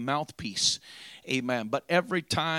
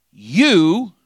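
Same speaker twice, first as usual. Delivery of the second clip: loud booming call; voice from heaven; 5 semitones higher, 16 dB louder than usual. Acted. Preacher voicing God to his son, booming. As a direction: boom the single word down from above.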